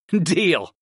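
amused, chuckled agreement; chuckling. A narrator's reading. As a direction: agree through a small chuckle. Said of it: "I chuckled at my familiar".

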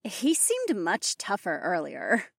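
high, soft, slow teasing voice; softly smug, pitched well up; smirking. A narrator's reading. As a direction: say it slowly through a smirk. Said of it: "Polina said with a smirk".

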